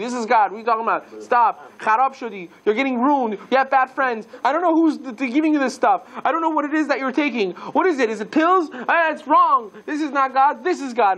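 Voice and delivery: high, scolding father berating his son. Acted. Teacher voicing a father scolding his son, high and heated. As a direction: lay into him like a furious dad.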